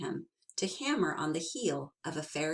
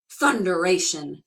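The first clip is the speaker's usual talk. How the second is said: exclamation; 8 dB louder than usual. Acted. Tom exclaims.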